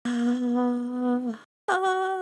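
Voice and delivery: wordless vocalizing, stepping up; sung "ah". Real, not acted. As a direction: sing a steady "ah", then jump up in pitch. Held wordless notes, second higher.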